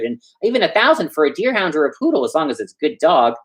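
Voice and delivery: a footman rattling on to show off; chatty footman. Acted. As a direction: footman prattles to the clerk about a dog. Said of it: "started rattling away".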